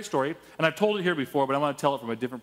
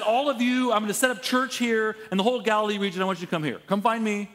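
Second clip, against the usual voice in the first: raised, higher-pitched summons to a crowd; mock public announcement; 6 semitones higher, 3 dB louder than usual. Imagined Jesus summons all Galilee, mock announcement. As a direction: call out like setting up shop, hammed up.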